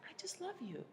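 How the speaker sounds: high, doting imitation of the husband; mock lovestruck husband; sweet husband. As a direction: gush it like a smitten husband. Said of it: "He's like".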